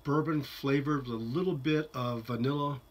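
talking around pipe stem; speaking with pipe clenched; pipe in mouth. Real, not acted. Seen 3: Pipe held at lips, stem between teeth through most of speech.

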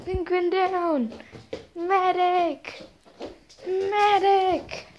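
high urgent call for a medic; man down shout. Acted. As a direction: shout for help across the battlefield. Calling for medic in play.

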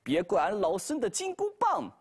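a last warning, stretched at the end; Monkey King warning. Acted.

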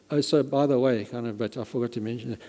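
mock-casual by-the-way remark; offhand aside. Preacher mocking a careless aside, light and throwaway. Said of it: "not just sort of mentioning".

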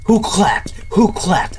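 whispered, frightened question; scared whisper. Real, not acted. Player hearing a clap, whispering in fear. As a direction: hush it like someone is near.

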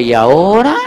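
lost "now what?" through a laugh; chuckling, helpless now what; laughing puzzled quote. Retold or imitated. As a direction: ask it half laughing at your own confusion. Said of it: "y uno dice".

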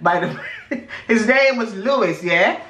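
a light mock British accent, ending lines on yeah?. Telling a friend about Big Brother UK in a mock British accent. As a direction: put on a cheeky UK accent, tag each line with yeah. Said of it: "you don't have to say yeah after every sentence".

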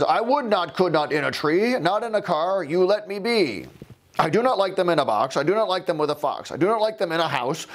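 a hint of an old grouch digging in; grumpy old man. The old man refuses Sam again, mildly grumpy. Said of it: "The grumpy old man says".

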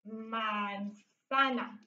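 very slow, stretched syllables in MANZANA; drawn-out dictation. Shown as a demonstration. Teacher dictating Spanish as she writes, drawn out. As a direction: sound out manzana slowly, softly, syllable by syllable. Sounds out word while writing it.

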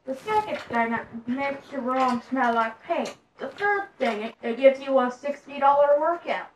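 hint of an old-time Southern aristocrat; put-on Southern gentry accent. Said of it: "that accent was great. It's like a Southern aristocrat".

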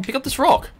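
real rage scream building up; furious scream. Real, not acted. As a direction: scream the order at the game. Screaming at game controls.

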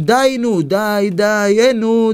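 high, drawn-out chant; mock group shout; shouting in chorus. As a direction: call it out slowly like the whole table. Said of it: "שומע אותם צועקים".

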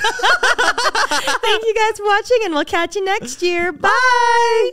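high, laughing sign-off. Real, not acted. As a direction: say goodbye through laughter.

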